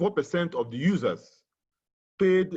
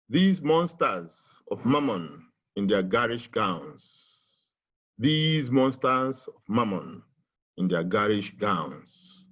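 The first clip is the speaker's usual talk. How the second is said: poem reading. Shown as a demonstration. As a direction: declaim it as a lament for the nation. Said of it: "which I would like to read".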